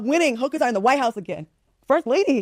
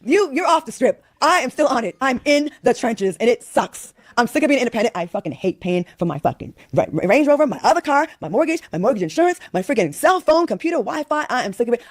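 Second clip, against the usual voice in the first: fed-up, emphatic rant; frustrated venting; 2 semitones higher than usual. Real, not acted. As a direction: vent with real exasperation, leaning on key words. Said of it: "Let me vent".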